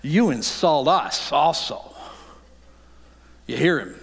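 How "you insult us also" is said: slow, indignant protest; offended lawyer. Acted. A lawyer protesting to Jesus, indignant. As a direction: sound stung and offended. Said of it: "you can hear it in his voice".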